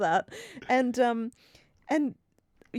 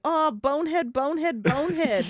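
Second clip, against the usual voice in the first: lightly voiced pizza kid, slightly higher; mock the kid's repeated insult; 5 semitones higher than usual. Co-host imitating a badly acted sitcom pizza kid, mocking. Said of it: "the kid who delivers the pizza being like".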